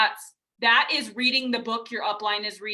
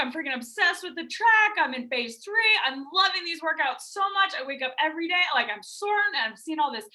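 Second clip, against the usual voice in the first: imitating a gushing coach, pitched higher; bubbly coach; 5 semitones higher than usual. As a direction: play an overexcited coach bragging about workouts. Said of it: "real conversations I've had with coaches".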